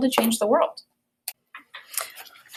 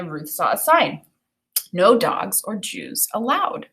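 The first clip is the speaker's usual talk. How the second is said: clear, expressive picture-book read-aloud; storybook reading voice; reading aloud to children; 2 semitones higher than usual. Acted. Teacher reads book aloud.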